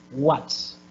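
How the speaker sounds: "What's" as one joined syllable; contracted form. Shown as a demonstration. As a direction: run "what is" together into "What's". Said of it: "the contraction".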